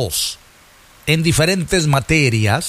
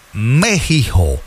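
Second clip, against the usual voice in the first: México drawled like an American, Mehiho; mocking Trump's Mexico; 5 semitones lower, much slower than usual. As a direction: mimic the gringo way of saying México, slowly. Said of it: "el presidente Trump aseguró".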